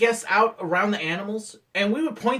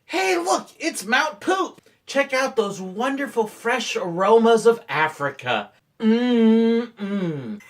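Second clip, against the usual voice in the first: slow, hammed-up savoring of the smell; high call-out easing into mock relish; tour guide patter; 3 semitones higher, slower than usual. Shown as a demonstration. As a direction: play the delighted safari guide. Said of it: "we would say something like".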